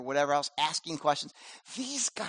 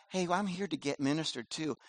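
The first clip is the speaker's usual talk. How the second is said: entitled churchgoer; 6 dB quieter than usual. Retold or imitated. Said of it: "It's not".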